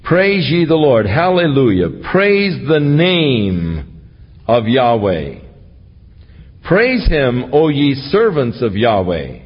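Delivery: measured, proclaiming psalm reading; scripture reading. Acted. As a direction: read the psalm as a call to praise. Reads psalm aloud.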